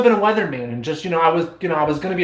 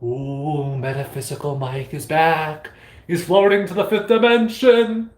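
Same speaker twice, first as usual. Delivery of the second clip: lightly spooky hype voice; playful mystical announcer; mock announcer; 2 semitones lower than usual. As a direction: announce your own mystical return. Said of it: "Watch this".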